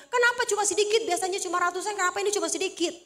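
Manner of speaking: hammed-up protesting why; mock angry complaint. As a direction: imitate someone griping over lost viewers. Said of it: "Dia marah-marah dulu".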